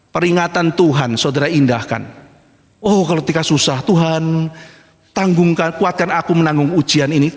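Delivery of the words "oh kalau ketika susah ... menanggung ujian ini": low, pious imitation of praying; mock pleading prayer. Preacher imitating a sufferer praying to God, low and pleading. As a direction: plead to God in feigned piety.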